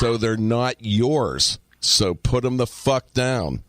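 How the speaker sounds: slow, deliberate scolding, each word laid down; slow no-nonsense telling-off to a stranger's kid; slow stern retort. Retold or imitated. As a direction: spell it out slowly to a cheeky kid.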